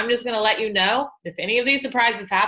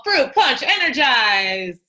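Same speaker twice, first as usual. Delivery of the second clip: excited reveal; 3 dB louder, slower than usual. Real, not acted. Announcing the awaited new flavor.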